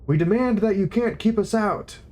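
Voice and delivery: bawling. A narrator's reading. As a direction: bawl the demand at them. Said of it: "bawled the younger one".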